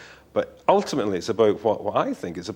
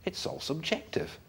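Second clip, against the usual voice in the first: soft, slow, musing higher voice; mock realisation; 6 semitones higher, 8 dB quieter, slower than usual. Writer recalling his Miss World lesson, mock-thoughtful realisation. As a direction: let it dawn slowly and softly. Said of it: "at some point it got through to me".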